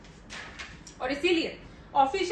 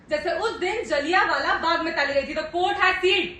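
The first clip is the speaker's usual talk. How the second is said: loud, forceful accusing delivery; heated courtroom accusation; 6 dB louder than usual. Acted. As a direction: raise your voice to the court. (अदालत में ज़ोरदार आरोप)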